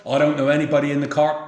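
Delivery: lightly acted village grumbler; retold village moaner. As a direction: grumble it fast between greetings. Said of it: "Dickie would moan".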